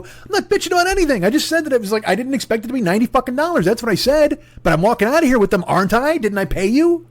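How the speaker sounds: a customer defending himself to a snarky clerk; indignant rant. Retold or imitated. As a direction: argue your case, offended. Arguing with the clerk.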